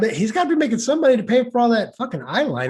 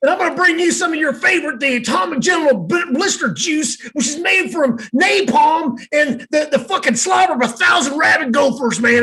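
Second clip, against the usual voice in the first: hammed-up ad pitch; 3 semitones higher than usual. Fake hot sauce ad.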